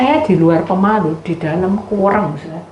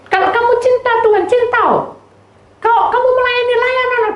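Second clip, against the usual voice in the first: emphatic preaching; 3 dB louder than usual. Real, not acted. Preacher's urgent exhortation.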